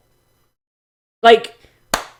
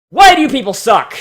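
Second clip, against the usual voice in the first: exasperated yell; 4 semitones higher, 6 dB louder than usual. Real, not acted. Frustrated outburst during rant.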